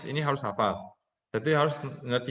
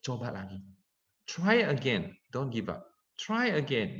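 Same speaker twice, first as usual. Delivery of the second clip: gentle encouragement. Shown as a demonstration. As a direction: lightly model patient encouragement, easing off in volume. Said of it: "Ngomongnya pelan-pelan".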